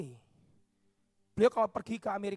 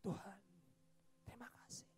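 weeping gratitude; 4 dB quieter than usual. Acted. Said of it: "dia menangis".

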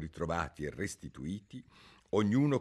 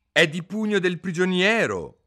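higher, louder question; curious juror; 11 semitones higher, 10 dB louder than usual. A narrator's reading. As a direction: call out from the jury. Juror asks.

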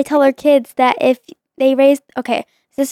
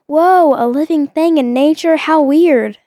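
sarcastic gasp of amazement; mock amazement; 3 semitones higher than usual. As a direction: fake wonder at a squirrel. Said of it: "and I said".

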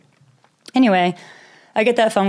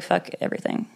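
defeated whisper; 7 dB quieter than usual. Retold or imitated. Sitting stunned in stopped car.

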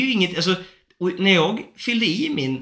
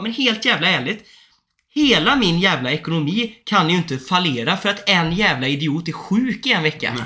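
a mock angry rant, a bit louder; retold angry outburst; 3 dB louder than usual. Scolding the sick caseworker's colleague on the phone, mock angry. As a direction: swear at the caseworker, half-acted fury. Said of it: "Jag blev så jävla förbannad".

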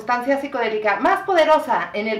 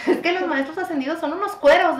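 higher imitation of a Monterrey regio accent; 8 semitones higher than usual. Imitating the Monterrey regio reader talking spiritual things. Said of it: "con su acento regio".

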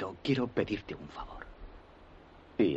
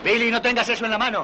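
put-on sharp, fast, much louder yell at the boy; alarmed shout; 14 semitones higher, 11 dB louder, faster than usual. Father shouting a warning at his son, loud and alarmed. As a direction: snap the warning out in a hurry.

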